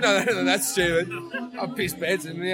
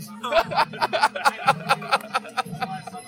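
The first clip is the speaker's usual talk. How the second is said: long, high burst of laughter; 8 semitones higher than usual. Real, not acted. Cracking up at the guy booking his flight home, long laugh. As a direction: crack up at length.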